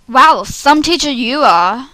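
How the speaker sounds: mock the teacher; sarcastic. Sarcastic student line.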